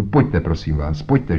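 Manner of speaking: anxious begging; pleading. Acted. Frightened Tadeusz begs the visitors inside, pleading. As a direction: beg them urgently to come along. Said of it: "žadonil Tadeusz Šolto".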